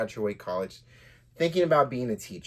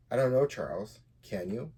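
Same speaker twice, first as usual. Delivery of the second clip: sarcastic. Acted. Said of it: "Mandy sarcastically asked back".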